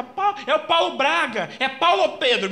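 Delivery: high, loud call, laughing through it; trance shout. Retold or imitated. Medium in trance calling the father's name, shouting with a laugh. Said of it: "ela grita".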